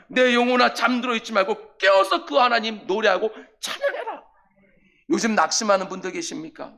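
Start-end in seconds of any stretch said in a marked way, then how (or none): 0.1-4.2 commanding. Acted. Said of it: "그래서 명령하는 거예요".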